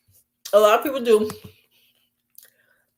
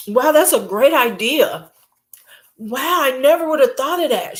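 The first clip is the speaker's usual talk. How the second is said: mock kiss-up; 5 semitones higher than usual. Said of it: "Every time".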